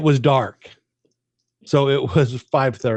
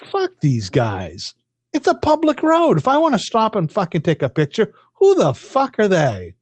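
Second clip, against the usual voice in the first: bravely cursing; 5 semitones higher than usual. Retold or imitated. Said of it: "bravely speak out loud".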